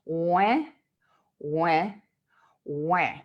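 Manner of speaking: isolated drawn-out wah sounds; facial exercise. Shown as a demonstration. Coach shows a face-muscle exercise, exaggerated separate wahs. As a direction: lift the cheeks and say each wah separately. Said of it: "you're actually lifting up here".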